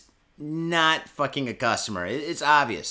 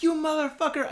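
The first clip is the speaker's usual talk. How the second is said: high-pitched mock yell of abuse; retold yelling; 12 semitones higher than usual. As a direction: act out cursing after a fleeing thief. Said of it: "I just started yelling shit".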